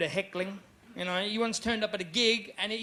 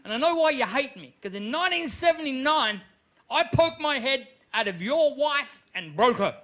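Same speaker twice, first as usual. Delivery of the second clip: stage rant; 5 semitones higher than usual. Retold or imitated. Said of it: "I said".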